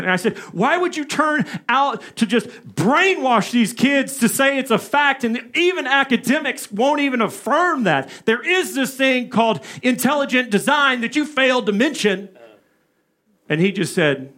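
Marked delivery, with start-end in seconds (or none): 0.5-12.3 higher, pushing challenge to the professor; challenging. Retold or imitated. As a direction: confront him head on. Retold confrontation with professor.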